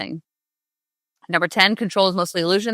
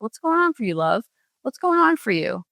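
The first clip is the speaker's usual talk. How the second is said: higher, tender coaxing tone; gentle self-talk; 4 semitones higher than usual. Pretend. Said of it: "have a nice, gentle talk with yourself".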